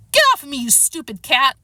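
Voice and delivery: mildly acted angry shout; angry protest. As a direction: shake off an attacker crossly. Harrison struggles with attacking cat.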